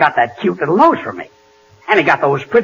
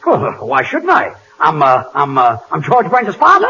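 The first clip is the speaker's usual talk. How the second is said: nervous dodge; slower than usual. Acted. Dodging the adjuster.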